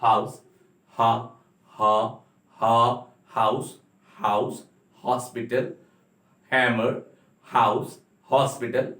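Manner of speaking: "हा, हाउस" with an airy h breath; h sound demo. Shown as a demonstration. Teacher showing how air alone makes the h sound. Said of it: "जैसे हम पढ़ते हैं हा".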